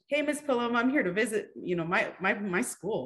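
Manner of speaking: lightly voiced child calling hello; imitating a child. Former pupils visiting the school.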